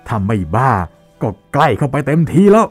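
high, loud furious rant at a painter; furious shouting. Acted. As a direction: rage and yell, pitch climbing high. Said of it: "บริพาทออกมาด้วยเสียงดังลั่นสนั่นห้อง". (ตะโกนด่าเสียงดังลั่นด้วยความโมโห)

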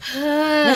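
mock exhausted "haah"; weary sigh. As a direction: let out a put-on weary sigh. Weary sigh after the long list.

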